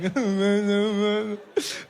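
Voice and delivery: exaggerated wailing sob; mock crying. Son at mother's bedside crying for everything, mock sobbing. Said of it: "So I'm crying for everything".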